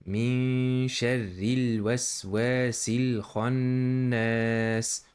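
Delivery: tajweed recitation; Quran recitation. Shown as a demonstration. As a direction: recite it in measured Quranic chant.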